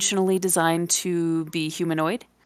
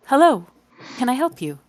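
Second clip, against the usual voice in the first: elven receptionist; 6 semitones higher, faster than usual. Acted.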